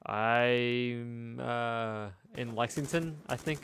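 imitating a drawn-out, hedging answer; mock hesitant dodge; vague, evasive. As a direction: stall on it, voice lifting, as if dodging the question. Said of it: "She was trying to be vague".

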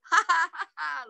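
high-pitched acted squirrel laughter; storybook ha-ha giggle; laughing squirrel. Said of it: "laughed Squirrel".

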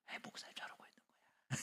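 unvoiced sly whisper; gossiping whisper. Person whispering about David to a neighbor, hushed whisper. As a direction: breathe it into a neighbor's ear. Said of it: "몰래 속삭이는 거예요".

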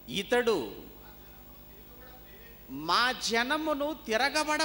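high, ringing declamation with long pauses; forceful scripture reading. Real, not acted. Preacher reading out the charge from Luke, declaimed.

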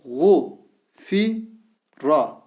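Gu said with a thick back U, each syllable drawn out; syllable drill with thick vowel. Shown as a demonstration. Teacher reads the thick-vowel syllables to students, slowly. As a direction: read out each syllable apart. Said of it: "Gayn harfi kalın harf".

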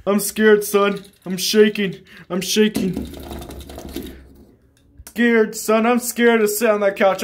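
lightly voiced timid father, whimpering; a hint of a scared dad. Dad tells his son he fears the couch, mock trembling. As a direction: play the dad frightened of the couch, half-hearted.

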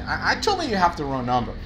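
a blunt, too-direct reply to a client; blunt wrong version. Shown as a demonstration. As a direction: brush the caller off bluntly. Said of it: "No puedo decir eso".

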